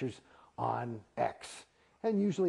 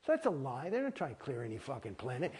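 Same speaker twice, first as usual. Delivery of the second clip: usual speaking voice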